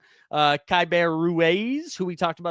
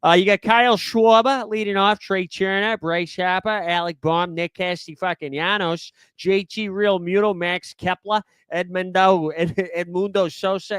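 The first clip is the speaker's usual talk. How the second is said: put-on 1 Boston accent; 2 semitones higher than usual. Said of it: "fun one to say in a Boston accent".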